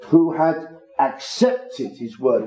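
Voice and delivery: "accepted" set apart and said slowly; slow down and weight the word "accepted"; deliberate, measured emphasis on "accepted"; stress on ACCEPTED. Shown as a demonstration. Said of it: "I wanted to emphasize that word there".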